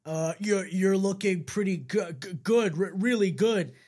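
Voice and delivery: stammering, flustered and shy; embarrassed stutter. A narrator's reading. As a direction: trip over the words nervously. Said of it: "stutters an embarrassed Ink".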